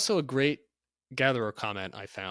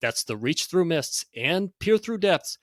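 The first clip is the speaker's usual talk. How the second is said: loud, high hyped sales pitch; carnival barker; 6 semitones higher, 4 dB louder than usual. Acted. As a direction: hawk it like a sideshow barker. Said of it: "read this in sort of a carnival barker type voice".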